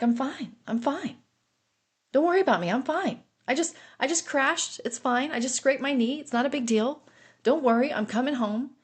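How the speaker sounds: reassuring. Retold or imitated. Injured husband on the phone telling wife not to worry, lightly reassuring. Husband brushing off his crash.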